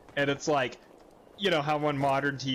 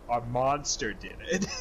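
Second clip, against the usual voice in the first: deadpan; slower than usual. Retold or imitated. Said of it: "she looks me dead in the eye and she goes".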